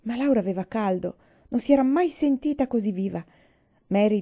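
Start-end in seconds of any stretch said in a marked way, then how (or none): none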